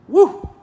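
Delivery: very high, loud excited whoop; excited woo. Real, not acted. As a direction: let out a loud whoop of joy. Preacher thrilled by prophetic word.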